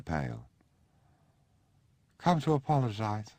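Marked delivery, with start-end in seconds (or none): 2.2-3.3 put-on high, slurred young man's voice, unsteady; a drunk young man barging in to apologise; drunk Sebastian. Drunk Sebastian interrupting family, raised high voice. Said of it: "he said".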